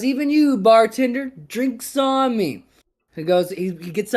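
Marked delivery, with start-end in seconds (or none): 0.0-2.6 high, loud, magnanimous call; pitched-up barroom proclamation, last words stretched; grand generous announcement. Acted. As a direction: raise the voice grandly to include the bartender. Joke's man generously includes bartender.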